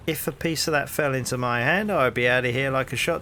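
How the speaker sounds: hearty London copper, rising into the question; cheery Cockney policeman greeting a stranger; cockney bobby. Acted. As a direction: play the nosy beat cop on his rounds. Policeman fantasizes.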